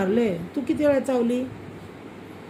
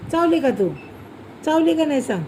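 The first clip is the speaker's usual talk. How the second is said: raised, louder demanding questions; stern questioning; 5 semitones higher, 3 dB louder than usual. Real, not acted. Parent sternly asks toddler whether she bit mummy.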